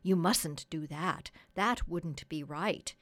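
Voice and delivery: slow, mildly firm refusal; earnest objection. Acted. Doctor gently objects to the plan.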